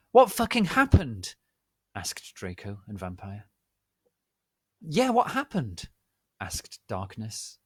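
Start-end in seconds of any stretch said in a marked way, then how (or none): 0.1-1.4 high, loud, shrieking question; high shout. Acted. Draco and Vampire demand answers in a high shout. 4.8-5.9 high shout. Acted. Friends echo the demand.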